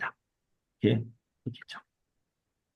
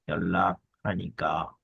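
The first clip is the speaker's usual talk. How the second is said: slow, low, drawn-out 연락하니까; slow sounding-out; 7 semitones lower, 4 dB quieter, slower than usual. Shown as a demonstration. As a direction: draw out each part of 연락하니까 for learners. Slow repeat sounding out the phrase.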